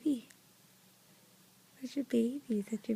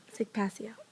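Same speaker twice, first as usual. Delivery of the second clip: whispering; 3 semitones lower, 7 dB quieter than usual. Real, not acted. Aside to adult during play.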